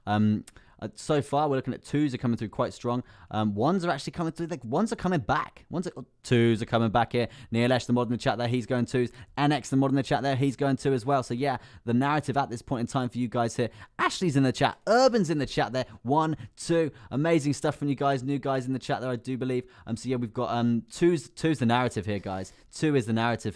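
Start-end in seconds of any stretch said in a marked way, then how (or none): 3.5-11.2 lightly played race commentator, pitched up at times; horse racing announcer. Streamer calling chat votes like a race, horse racing announcer. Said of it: "I like the horse racing announcer voice". 14.0-19.1 higher, louder race-caller delivery; horse racing announcer. Pretend. Streamer calling out who is in the chat, horse racing announcer. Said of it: "I like the horse racing announcer voice".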